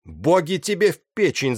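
high, loud cry of outrage; shouted curse. A narrator's reading. Captain cursing the pirate commander, shouting. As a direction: yell the curse at your enemy. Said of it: "закричал было капитан Мизович".

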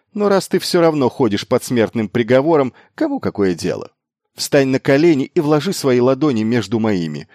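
high, loud improvised proclamation; excited, insistent orders; urgent commanding. A narrator's reading. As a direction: seize control with rising, forceful urgency. Miles improvises a forceful conscription.

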